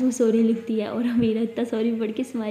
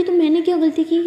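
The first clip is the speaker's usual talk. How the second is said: snapping back; 5 semitones higher, 7 dB louder than usual. Acted. Partner snaps back.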